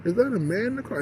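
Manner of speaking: high-pitched gawker imitation; mock astonishment. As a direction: mimic a nosy onlooker, pitch swooping high. Imitating gawkers spotting him in car.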